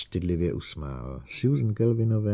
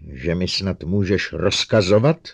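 shouting; 5 dB louder than usual. Acted. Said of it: "rozkřikl se Lening".

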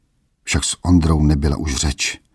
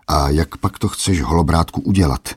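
snide. Acted. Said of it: "vyzvídal jízlivě".

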